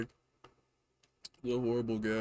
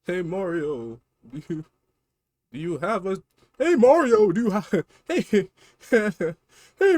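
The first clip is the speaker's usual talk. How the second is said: high, pleading little-brother voice with laughs; whiny Luigi; 9 semitones higher, 9 dB louder than usual. Acted. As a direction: squeal for Mario's help.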